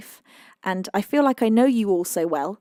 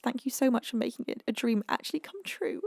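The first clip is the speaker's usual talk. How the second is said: tearful reading; 2 semitones higher, 6 dB quieter than usual. Real, not acted. Streamer reads a supporter's message aloud, tearful. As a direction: voice wavering with held-back tears.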